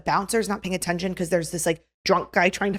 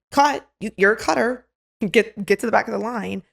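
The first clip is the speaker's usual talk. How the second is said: calling out; 3 semitones higher than usual. Retold or imitated. Rule follower to line cutters, calling them out. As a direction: scold someone for cutting in line.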